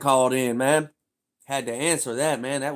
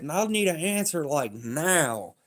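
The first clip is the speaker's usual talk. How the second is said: higher mock boss voice; a hint of the boss; 5 semitones higher, slower than usual. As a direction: play the nagging boss. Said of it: "He said".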